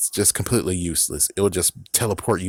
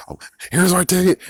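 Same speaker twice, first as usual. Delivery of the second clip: much higher, sing-song offer; sweetly flaunt the ticket; smug Loki; 10 semitones higher, 4 dB louder, faster than usual. Retold or imitated. Loki cheerfully showing his ticket to the jerk, much higher voice. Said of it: "Loki's like".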